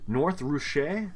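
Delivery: slow "North Russia", last word as roo-SHAY; sounding out spelling. Real, not acted. Guessing at a foreign spelling, slowly sounded-out "Russia" as roo-SHAY. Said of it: "I don't think that's how Russians spell Russia".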